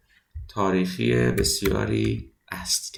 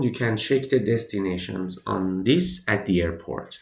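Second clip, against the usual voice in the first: slow model reading; much slower than usual. Shown as a demonstration. Teacher reads English sentence aloud.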